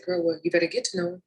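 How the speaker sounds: straight-talking quick warning; blunt retort. Retold or imitated. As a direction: say it flat and matter-of-fact, a little fast. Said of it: "you know, just like that".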